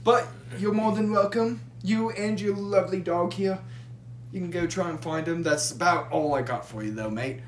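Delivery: lightly voiced Australian barkeep, friendly; casual Australian accent for the bar patron. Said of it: "You went from Scottish to Australian".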